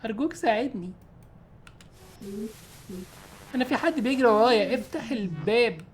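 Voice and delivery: high, soft begging woman's voice; pleading woman. Acted. Woman at the door begging the player to let her in, high soft plea. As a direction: beg through the door, frightened.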